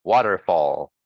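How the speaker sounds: "Waterfall" with the middle er short and weak; quick unstressed er. Shown as a demonstration. Teacher showing students unstressed er, "Waterfall" with a fast er. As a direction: hurry through the er in "Waterfall". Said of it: "It's very fast".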